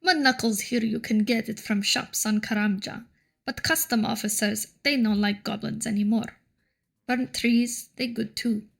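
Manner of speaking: put-on goblin cook with a light Russian accent; slightly Russian-accented goblin voice; Russian-tinged goblin. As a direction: speak broken goblin English, drifting towards Russian. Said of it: "slowly slipping into a Russian accent".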